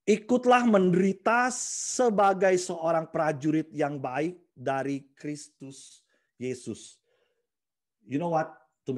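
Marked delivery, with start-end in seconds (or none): 0.0-6.9 slow, solemn Bible reading; scripture reading. Acted. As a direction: read it out with weight. Reads scripture verse. (bacakan ayat dengan pelan dan khidmat)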